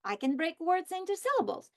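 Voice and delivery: choppy robotic syllable-by-syllable voice. Shown as a demonstration. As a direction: speak like a robot, beat by beat. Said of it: "If I speak like a robot".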